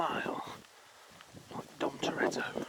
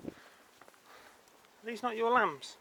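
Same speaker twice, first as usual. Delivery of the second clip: higher and slow, stretching lambs out; slow, drawn-out coo at lambs; 5 semitones higher, 3 dB quieter, much slower than usual. Acted. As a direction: coo the word lambs long and slow to the sheep. Talking to sheep in field.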